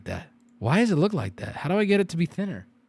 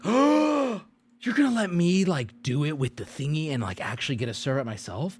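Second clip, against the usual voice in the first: excited; 3 semitones lower, 3 dB quieter than usual. Retold or imitated. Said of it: "I was like".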